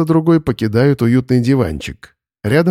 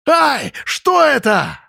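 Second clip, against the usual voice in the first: much higher, slow shocked shriek; shriek of alarm; 13 semitones higher, much slower than usual. A narrator's reading. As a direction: scream as something grabs you. Boris gets scalped by Gavrila. (Борис вопит от испуга)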